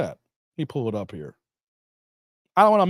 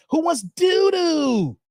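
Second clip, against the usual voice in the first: mock shout; 9 semitones higher, much slower than usual. Joking about the bidet toilet.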